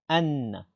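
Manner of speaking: anna with a lengthened n; doubled nun. Shown as a demonstration. Teacher explaining the tashdid, anna with doubled n. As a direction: lean and linger on the nn of anna. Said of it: "le tashdid sur le nun".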